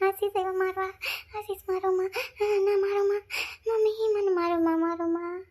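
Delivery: high, pleading cries not to be hit; begging in fear. Acted. Scared girl begging Ashish not to hit her, panicked high pleading. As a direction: beg them desperately to stop. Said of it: "કેવી બિસાડી ગભરાઈ ગઈ".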